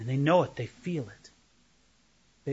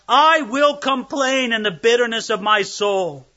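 impassioned cry; 4 semitones higher, 5 dB louder than usual. Retold or imitated. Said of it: "As Job cried out to God".

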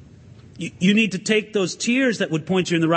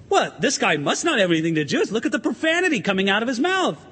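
mock astonishment, swooping up in pitch; acted-out disbelief, rattled off fast; shocked bystander; 2 semitones higher, faster than usual. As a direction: play an incredulous onlooker, quick and animated. Imagined bystander shocked at Peter's swearing.

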